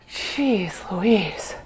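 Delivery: breathy whispered sigh of exhaustion; a tired whisper to yourself; whispered aside. Real, not acted. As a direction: whisper it, worn out.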